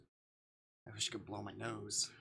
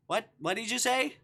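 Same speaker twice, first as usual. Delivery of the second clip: loud, high, indignant question; startled, playful yell; mock outrage; 12 semitones higher, 10 dB louder than usual. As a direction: demand an answer, voice shooting up. Mock outrage at game's line.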